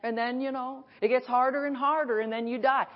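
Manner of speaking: lightly mocking pessimist; mock gloomy whine. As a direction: imitate a defeatist complaint. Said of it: "stop saying that".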